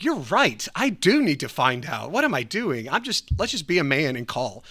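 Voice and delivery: emphatic, punchy self pep talk; newfound confidence. Retold or imitated. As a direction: pump yourself up to act. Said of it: "gave me enough confidence to be like".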